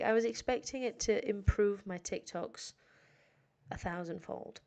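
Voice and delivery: ordinary talk, nothing marked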